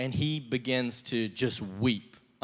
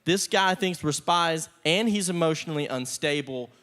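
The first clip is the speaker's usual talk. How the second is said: hammed-up dread with a laugh, higher and louder; mock terror; 4 semitones higher, 4 dB louder than usual. Brothers facing a weeping ruler, mock terrified. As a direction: fake a doomed panic, half-laughing. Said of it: "they're terrified 'cause they're like".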